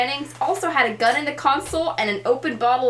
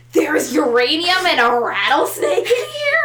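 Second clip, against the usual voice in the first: loud, shocked echo of the cop's words; hammed-up disbelief at the news; mock shock; 3 semitones higher, 5 dB louder than usual. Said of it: "and you just go".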